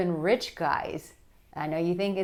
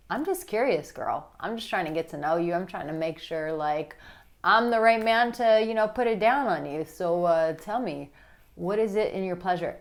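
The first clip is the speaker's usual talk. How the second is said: sensual curiosity. Shown as a demonstration. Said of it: "sensual and his energy is like".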